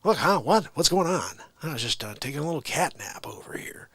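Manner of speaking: startled awake, then trailing into softness; groggy politician caught napping; Joe Biden. Acted. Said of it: "a good Joe Biden impression".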